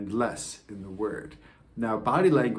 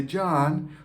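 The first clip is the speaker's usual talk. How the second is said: John said higher and lighter; loving name call; 6 semitones higher, 3 dB louder than usual. Shown as a demonstration. Parent saying child's name John, lovingly. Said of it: "one means you're in trouble, and the other means I love you".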